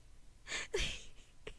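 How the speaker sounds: soft, voiceless giggle; breathy nervous laugh. Real, not acted. Nervous laugh during mic check.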